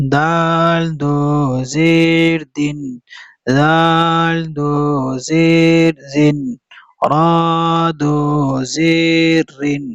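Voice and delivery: slow, drawn-out syllables on a level tone; Qaida spelling recitation. Shown as a demonstration. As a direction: chant each letter name steadily, holding the long vowels. Leads spelling recitation drill.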